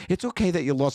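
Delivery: put-on high little-boy voice; consoling son. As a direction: imitate a child giving a pep talk. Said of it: "then he was going".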